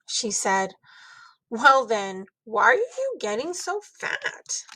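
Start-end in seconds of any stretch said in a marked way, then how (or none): 1.5-4.6 put-on child voice. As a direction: ask it like a guileless kid. Child blurting rude question.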